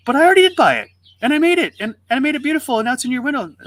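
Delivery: put-on very high kid's wail of unfairness, loud at first; retold pleading, starting loud and easing off; exasperated protest. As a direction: act out a boy's outraged objection. Boy told to buy it.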